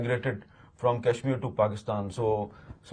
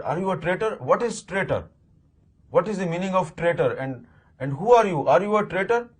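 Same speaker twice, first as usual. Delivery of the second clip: higher, rising accusing questions, mock-angry child; angry demand; 5 semitones higher than usual. Son angrily confronting his father about being a traitor, higher accusing questions. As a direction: retell the boy confronting his dad, pitch climbing. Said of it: "I was very angry with my father".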